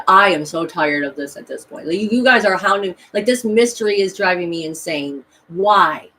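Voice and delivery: exasperated and loud, at the end of my rope; complaining loudly to pestering spirits; retold exasperated outburst. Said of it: "I said".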